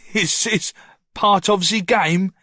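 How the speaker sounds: high, sing-song mimicry of Noah; mocking echo. A narrator's reading. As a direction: parrot his question back to ridicule him. Ricky mocks Noah's question.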